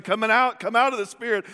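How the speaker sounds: insistent acted rebuke; acted command. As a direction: fire it back in a heated exchange. Acting out shouted exorcism back-and-forth.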